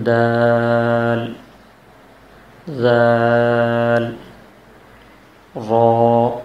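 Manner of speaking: each letter called out loudly and drawn out; letter review. Shown as a demonstration. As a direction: recite each letter slow and loud, vowels stretched. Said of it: "آخر میں دوبارہ ہم پڑھ لیتے ہیں".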